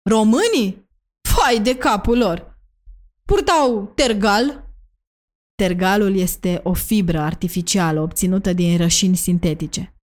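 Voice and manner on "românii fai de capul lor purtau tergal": mild narrated outcry, drawn out and pitched up; near-scream, understated. A narrator's reading. Doamna Tomescu exclaims about what Romanians wore, mildly near-shouting. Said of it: "Aproape că țipă".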